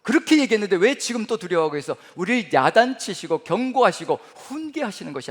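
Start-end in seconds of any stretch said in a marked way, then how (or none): 0.0-2.0 scolding. Pretend. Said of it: "야단치시는 말씀이에요".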